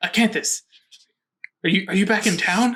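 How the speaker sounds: very half-whispered, hushed voice. Jimmy Small phones Songbird; Jimmy Small's hushed half-whisper. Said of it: "in a very whispered, kind of hushed voice".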